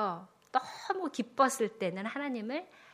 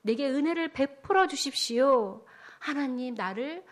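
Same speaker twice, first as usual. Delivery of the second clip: acted prayer; 4 dB louder than usual. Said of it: "하나님께 기도한 거지요".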